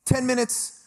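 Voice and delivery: high-pitched question, rising sharply at the end; incredulous. Retold or imitated. Broker doubting Juan's ten-minute promise, incredulous. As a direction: act out appalled disbelief.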